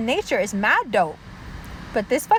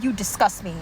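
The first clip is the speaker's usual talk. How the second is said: disgust; 6 semitones lower than usual. Real, not acted. First take, low and matter-of-fact.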